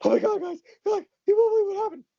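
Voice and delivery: imitating a high, shaky emotional outburst. Telling friends what happened for the first time, shaky voice. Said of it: "you know, shaky voice".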